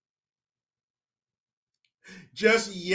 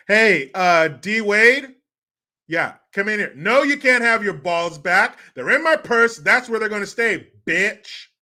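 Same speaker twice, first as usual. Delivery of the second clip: a lightly voiced, louder bossy wife; hammed-up domineering wife calling him in; Gabrielle Union impression; 3 semitones higher, 5 dB louder than usual. Gabrielle Union bossing D Wade at home, mild mock voice. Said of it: "an impression of Gabrielle Union at home".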